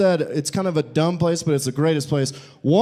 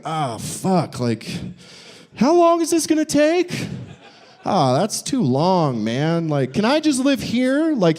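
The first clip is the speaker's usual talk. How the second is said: whiny pioneer; 3 semitones higher than usual. Retold or imitated. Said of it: "they're just like".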